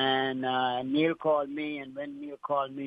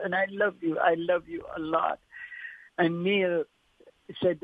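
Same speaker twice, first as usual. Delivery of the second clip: emotional goodbye, higher and strained; choked up with emotion; 4 semitones higher than usual. Real, not acted. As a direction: voice tight and higher, fighting tears. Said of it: "I'm getting emotional".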